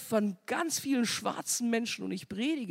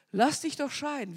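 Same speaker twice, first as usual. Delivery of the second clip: pushed higher, pressing the point; insistent devil; 5 semitones higher than usual. Retold or imitated. Devil pressing her to divorce, higher and insistent. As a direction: repeat it higher and more urgently.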